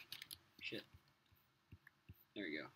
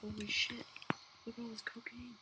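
high put-on voice, gloating; mock gangster gloat; 9 semitones higher than usual. To viewers over his stash, a high mock gloat. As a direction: crow over the pile like a kingpin.

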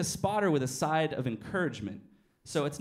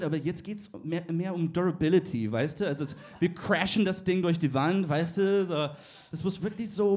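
German boss Denglisch. Retold or imitated. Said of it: "He's like".

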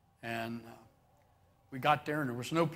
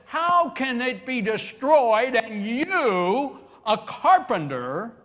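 mocking laugh; 7 semitones higher, 10 dB louder, much slower than usual. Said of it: "I could imagine them guys laughing at Jesus".

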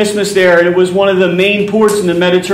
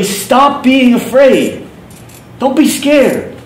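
reassuring command; 4 semitones higher, slower than usual. Retold or imitated. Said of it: "the grammar is literally".

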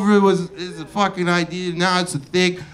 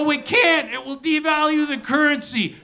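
high, prim objection; mock-prim refusal, pitched up; stuffy economists; 7 semitones higher than usual. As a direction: object like a stiff official. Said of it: "They go".

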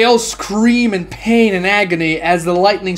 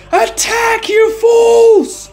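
very high, loud yelled command; furious yell; 3 dB louder, much slower than usual. A narrator's reading. Captain ordering his men to attack, furious yell. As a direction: scream the order at the troops. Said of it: "The captain yells".

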